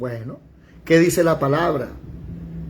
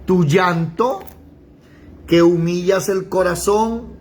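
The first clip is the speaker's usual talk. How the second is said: ordinary delivery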